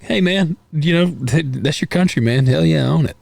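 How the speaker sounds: mild mock backslapping approval; hearty cheer. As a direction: cheer him on like a buddy. Cheering friend's Canadian pride.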